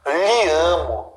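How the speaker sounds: slow, lhe amo drawn out sweetly; mock tender. A man telling a woman lhe amo, mock tender. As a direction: croon lhe amo like a lover. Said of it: "Olha que frase, que frase linda".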